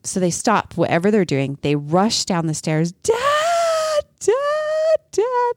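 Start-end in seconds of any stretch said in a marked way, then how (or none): 2.9-5.5 put-on high, excited child calling out; kids calling dad. Kids rushing downstairs calling for their dad, high and excited. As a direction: call for dad like an eager kid.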